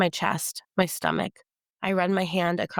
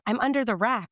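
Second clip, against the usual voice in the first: screaming; 5 semitones higher than usual. Acted. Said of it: "I scream".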